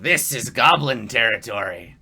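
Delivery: loud, grandiose goblin proclamation. Acted. Goblin claims the land before intruders, loud and grandiose. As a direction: lay claim with pomp. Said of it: "like, grandiosely".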